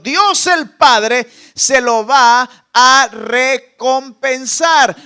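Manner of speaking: booming slow promise; emphatic proclamation. Acted. Preacher's climactic promise.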